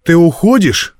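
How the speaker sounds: high, absent-minded question. A narrator's reading. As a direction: ask distractedly in a high girl's voice. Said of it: "рассеянно спросила девушка".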